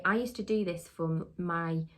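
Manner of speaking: ordinary delivery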